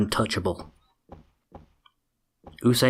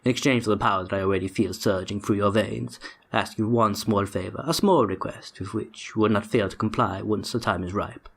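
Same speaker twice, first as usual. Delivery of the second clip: a lightly voiced sinister tempter, sinking to a whisper; copying the villain's voice. Streamer reads the villain's letter in a lightly put-on villain voice. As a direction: play the smooth villain reading his letter, only half in character. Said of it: "me vaguely trying to copy the V A".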